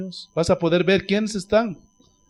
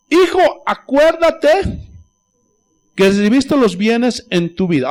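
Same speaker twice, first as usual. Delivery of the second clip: stern Abraham; 3 semitones higher, 3 dB louder, slower than usual. Acted. Abraham answers the rich man.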